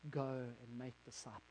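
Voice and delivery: soft, measured and solemn; Jesus's commission. Acted. Jesus on the Mount of Olives commissioning Peter, soft and solemn. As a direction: send him out quietly, with weight. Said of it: "and he says to me".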